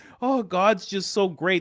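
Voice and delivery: play-acted weepy, blubbering, high, drawn-out sobbing. Retelling crying by an open window, acting it out: mock crying. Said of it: "I was crying like that".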